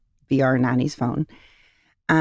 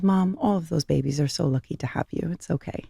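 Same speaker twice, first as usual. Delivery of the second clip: softer and softer, ending in a whisper; hushed daughter; 5 dB quieter than usual. Retold or imitated. Mom retelling her sleepy daughter's words, hushed to a whisper. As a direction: let the last words fade to a whisper.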